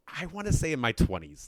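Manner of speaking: high, loud, laughing through the words; quoting her while cracking up; laughing, amused retelling; laughing quote. Retold or imitated.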